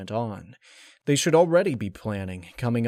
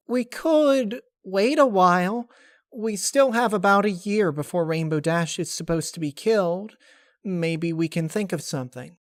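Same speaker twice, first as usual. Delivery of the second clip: hopeful suggestion; 6 semitones higher, 4 dB louder than usual. Acted. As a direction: offer the idea gently. Narrator voices another character.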